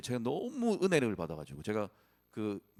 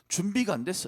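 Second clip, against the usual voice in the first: rising higher, belittling whisper-free taunt; fear's taunt climbing higher and louder; 7 semitones higher, 3 dB louder than usual. Acted. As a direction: doubt growing louder as it scolds. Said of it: "모세의 두려움이 계속해서 모세에게 얘기했던 것이죠".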